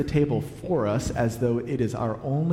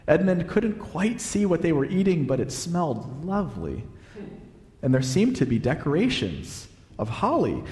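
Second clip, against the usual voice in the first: animated, expressive storybook reading; story narration; 4 semitones higher than usual. A narrator's reading. Preacher reading a Narnia scene to listeners, storytelling. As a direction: read the tale aloud with lilting emphasis.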